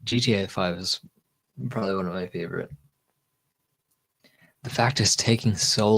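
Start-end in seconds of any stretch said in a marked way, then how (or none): 0.0-0.8 tipsy stumble over words. Real, not acted. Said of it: "can you tell I'm tipsy?".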